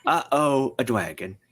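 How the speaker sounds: dwagon said with a W instead of an R. Shown as a demonstration. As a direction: say dwagon with a cute W. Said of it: "Very important that there's a W in there".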